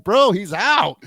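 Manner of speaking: high, loud, drawn-out exclamation; excited call. Acted. Reacting to a wrestling finish, excited call.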